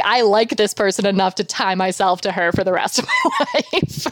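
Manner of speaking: joking quote breaking into laughter; laughing mock quote. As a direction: imitate her, cracking up toward the end.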